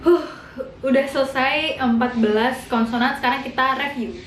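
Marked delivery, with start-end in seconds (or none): 0.0-0.2 higher, cackling ke ke ke; mock hard laugh. Shown as a demonstration. Teacher showing Korean online laughter, cackling mock laugh. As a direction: rattle off a big giggle. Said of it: "ketawa yang ngakak banget".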